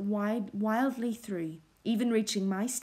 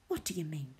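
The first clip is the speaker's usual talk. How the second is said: shaken question; 4 semitones lower, 7 dB quieter, faster than usual. A narrator's reading. Host shaken, muttering.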